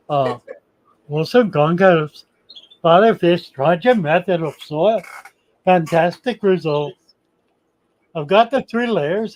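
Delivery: playful attempt at a Danish accent. Host reads viewer comments aloud, lightly done Danish accent. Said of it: "let me get Danish accent".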